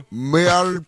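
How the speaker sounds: a high mock meow. Friends mocking the meow, a high meow. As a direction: toss off a meow. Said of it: "showing a meow".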